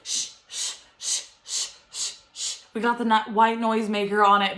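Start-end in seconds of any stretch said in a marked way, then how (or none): 0.0-2.6 soft shushing; shushing a baby. Shown as a demonstration. Soothing her crying baby, soft shushing. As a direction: hush a crying baby to sleep. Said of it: "going like this".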